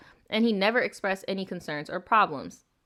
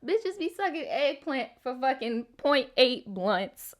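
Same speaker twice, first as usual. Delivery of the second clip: hint of a put-on voice, higher and slow; Nicole TV; 5 semitones higher, slower than usual. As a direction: lightly imitate her, drawing the words out. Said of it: "in my Nicole T V voice".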